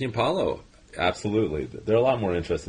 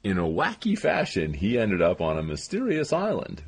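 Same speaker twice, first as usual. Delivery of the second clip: comedy trailer voice; 3 semitones higher than usual. Acted. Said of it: "I was doing the comedy trailer".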